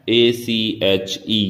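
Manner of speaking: ordinary talk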